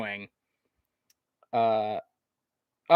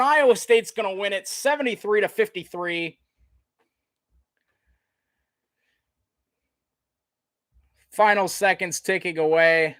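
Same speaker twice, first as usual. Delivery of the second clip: raised, ringing end-of-game call; big sportscaster sign-off at the buzzer; excited play-by-play; 6 semitones higher, 4 dB louder than usual. Real, not acted. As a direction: announce the victory to the whole arena. Calls the final seconds of win.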